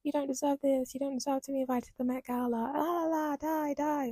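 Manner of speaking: hammed-up nasty commenter; mock online hater. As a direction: sneer like a pile-on troll. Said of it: "dogpiling on them and being like".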